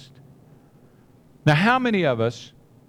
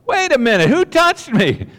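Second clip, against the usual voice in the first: acted loud question; 8 semitones higher, 6 dB louder than usual. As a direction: stop the whole crowd with the question. Jesus stops the crowd.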